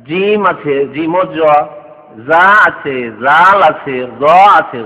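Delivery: "জিম", "জা", "জাল" each stressed and held; Arabic letter demo. Shown as a demonstration. Teacher challenging Bangla readers with Arabic letters, "জিম, জা, জাল" held distinctly. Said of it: "কেমন করে উচ্চারণ করবেন আপনি?".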